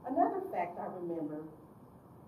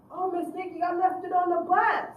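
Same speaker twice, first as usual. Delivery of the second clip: put-on high, loud pleading teen voice; whiny youth; 10 semitones higher, 10 dB louder than usual. Teen pleading with his counselor about his lost check, loud and whiny. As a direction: whine it like a kid caught out.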